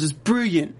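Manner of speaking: whispered mock British. Mimicking a British character, whispered. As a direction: breathe it like a posh Brit. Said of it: "I don't even pronounce my L's".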